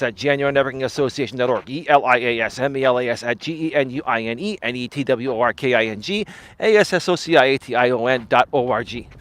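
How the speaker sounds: running out of air mid-spelling; breath fading as the letters drag on. Real, not acted. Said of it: "I lost my breath saying that".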